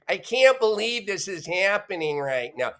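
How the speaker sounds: a hint of a whiny pundit, mocking; mocking impression. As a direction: lightly send up the rival pundit's delivery. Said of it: "He talks like that".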